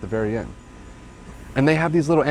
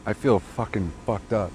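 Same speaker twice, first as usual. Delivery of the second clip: tipsy, a little slurred; 2 semitones lower, 3 dB quieter than usual. Real, not acted. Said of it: "I'm getting drunk".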